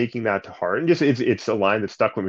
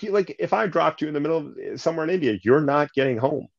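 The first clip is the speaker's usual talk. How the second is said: higher, quicker put-on dad voice; imitating dad; 7 semitones higher than usual. Son retelling his father's warning in a higher put-on voice. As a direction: mimic your father's warning, brisk and pitched up. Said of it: "he'd be like".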